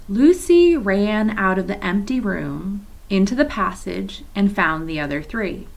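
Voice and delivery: put-on reading aloud to children, steady and clear; story narration. A narrator's reading. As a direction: read the chapter like a teacher at story time. Teacher reads novel to class.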